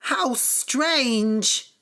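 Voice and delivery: high amazed cry. Acted. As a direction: gasp it out in wonder. Wife amazed by the coat.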